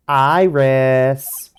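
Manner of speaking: drawn-out teasing name. Acted. Maya needles Nick about Sister Iris, teasing. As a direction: stretch the name out to needle a friend.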